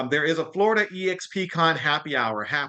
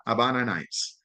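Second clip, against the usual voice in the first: Spanish accent; 4 semitones lower than usual. Shown as a demonstration. Presenter checks her Spanish accent with the audience. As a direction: say "Habana" with a B and open a's, a light Spanish touch. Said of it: "did all my Hispanics in here?".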